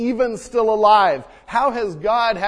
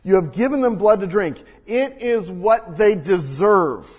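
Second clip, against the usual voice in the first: louder, measured proclaiming; scripture read with force; 4 dB louder than usual. Acted. Pastor reading Revelation to the church, loud and measured. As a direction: let the angel's words ring out. Rereads verse emphatically.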